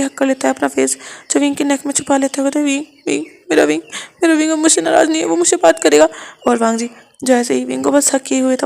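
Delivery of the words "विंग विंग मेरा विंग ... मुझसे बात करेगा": Wang ji's voice. Acted. Wang ji amazed that Wing is talking to him, pleading. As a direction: ask it half-accusing, half-hopeful.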